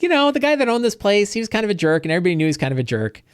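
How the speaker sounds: high, put-on old innkeeper voice; old woman voice. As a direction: play the cheerfully sinister widow. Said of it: "angry old women".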